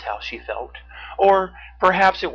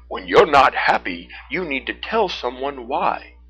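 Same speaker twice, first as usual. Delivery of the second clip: loud bear giving advice; Teddy; 7 dB louder than usual. A narrator's reading. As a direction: advise firmly as a big friendly bear. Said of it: "Teddy the brown bear replied".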